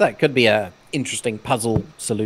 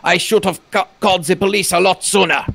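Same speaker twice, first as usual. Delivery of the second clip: higher, louder pleading husband; 5 semitones higher, 3 dB louder than usual. Acted. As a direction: beg desperately for help.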